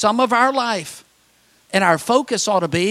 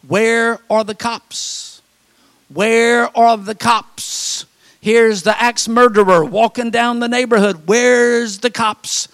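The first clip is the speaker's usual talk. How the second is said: alarmed thought; 3 semitones higher, 5 dB louder, slower than usual. Retold or imitated. Alarmed at an axe murderer.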